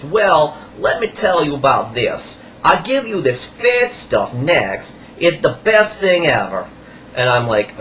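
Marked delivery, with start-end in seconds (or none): 0.0-6.7 lightly voiced flattering seller; imitating the salesman. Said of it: "He goes".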